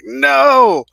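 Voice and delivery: high loud cry of No; panicked shout. Retold or imitated. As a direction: yell it in panic. Everybody panics.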